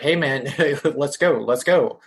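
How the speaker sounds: a moderate retold yell with a laugh breaking in. Calling his friend to run from the woods, a retold yell with a laugh. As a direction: yell urgently to your friend, half-laughing at the memory. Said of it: "I yell at my friend".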